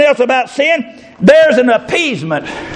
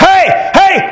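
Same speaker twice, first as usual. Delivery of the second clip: excited hype shout; 6 semitones higher than usual. Retold or imitated. Hyping the frog beat.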